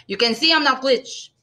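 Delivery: mild complaint, pitched high; sighing. A narrator's reading.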